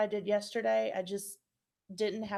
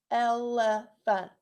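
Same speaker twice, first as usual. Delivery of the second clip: "elephant" drawn out slowly and louder, each syllable apart; slow syllable clapping; 6 dB louder, slower than usual. Shown as a demonstration. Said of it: "That means there's three syllables".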